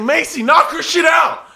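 high, loud cheer for a fighter; egging on. Retold or imitated. Onlooker urging Macy to hit her, egging on. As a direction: imitate a shouting spectator.

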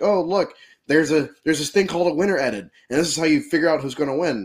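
high, fast excited explaining; eager know-it-all. Retold or imitated. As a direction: rattle it off like an eager fan. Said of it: "It's like".

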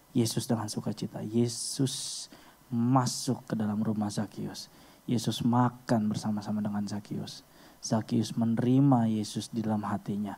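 soft, low, reflective preaching; solemn appeal. Real, not acted. Solemn appeal to listeners' hearts. (lembut dan khidmat, suara rendah)

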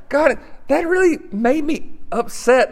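a hint of a frustrated believer praying aloud; mock upset prayer. Acted prayer of a frustrated person.

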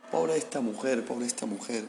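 muttered aside, pity under the breath; to himself. Retold or imitated. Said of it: "como a él mismo".

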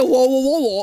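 mock alarmed whoa. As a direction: echo his startled whoas, lightly. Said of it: "he said".

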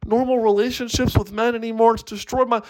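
high, wailing sob story; hammed-up tearful blubbering at a very high pitch; mock crying. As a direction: wail it like a girl sobbing in therapy. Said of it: "she's, like, crying".

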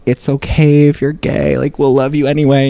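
parents telling their son it's okay, gently reassuring; imitating parents. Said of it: "my parents sit me down and be like".

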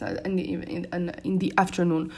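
halting, words getting stuck; stuttering. Real, not acted. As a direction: stumble over the words. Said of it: "Why am I stuttering and losing my words?".

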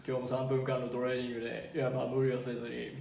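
low, calm fitness-channel host; lightly voiced laid-back muscle guy; macho YouTuber voice. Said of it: "モノマネするね".

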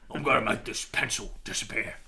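put-on English accent, unhurried; Ray Winston. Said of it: "like, a Ray Winston".

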